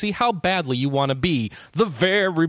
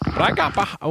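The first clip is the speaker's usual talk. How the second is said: put-on old-timey voice; 5 semitones higher, 3 dB louder than usual. Shown as a demonstration. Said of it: "I'm gonna read 'em in an old-timey voice".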